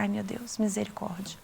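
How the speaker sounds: soft, weary sigh of dismay; quiet muttered despair; hushed dismay. Retold or imitated. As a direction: say it under your breath, resigned. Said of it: "Aí eu falei".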